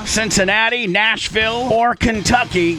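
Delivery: steady, upbeat sponsor read over music. Acted. Radio host reads a sponsor ad for listeners, upbeat ad read. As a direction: sell the dealer list like a radio spot.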